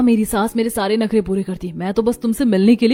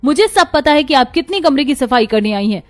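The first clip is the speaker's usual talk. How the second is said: angry; 4 dB louder than usual. Acted. Daughter orders sister-in-law out.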